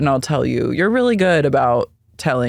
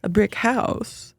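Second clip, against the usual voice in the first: high slow appraisal; 8 semitones higher, slower than usual. Retold or imitated. Voicing Heather listing measurements.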